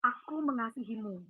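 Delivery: soft, slow, gentle words; the voice she heard saying it softly. Retold or imitated. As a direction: say it tenderly, hushed. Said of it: "Dan itu lembut banget".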